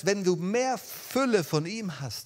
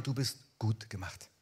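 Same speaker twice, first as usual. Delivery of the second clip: softly spoken blessing; 5 semitones lower, 6 dB quieter than usual. Real, not acted. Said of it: "ich will das mal so zusprechen".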